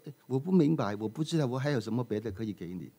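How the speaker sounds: the master musing he has nothing left to give; puzzled master. Acted. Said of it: "那个师傅就说".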